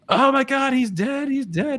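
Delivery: high, loud panicked cry; panicked neighbor. Retold or imitated. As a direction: mimic the frantic neighbor at the door. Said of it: "And she's like".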